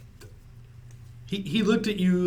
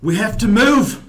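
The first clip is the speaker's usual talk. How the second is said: called out loud and high, British slipping into Australian; botched British accent, drifting Australian; Australian-sounding British accent; 9 semitones higher, 10 dB louder than usual. Acted. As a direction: shout it slowly in a muddled British-Australian accent. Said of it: "a little more Australian than British".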